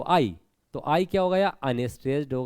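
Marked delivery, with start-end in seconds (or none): 0.0-0.4 आई comes out at once, unstressed; quick unstressed reading. Shown as a demonstration. Teacher showing an unstressed syllable to students, quick and effortless. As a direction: say आई quickly, without any force. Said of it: "हमने तुरंत पढ़ लिया आई को".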